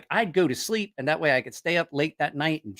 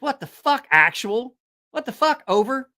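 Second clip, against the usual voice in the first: exasperated; 9 semitones higher than usual. Retold or imitated. Mock radio exasperation.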